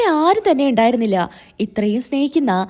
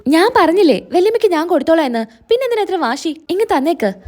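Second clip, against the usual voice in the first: acted angry insistence; 4 semitones higher than usual. Insisting against Anamika's stubbornness.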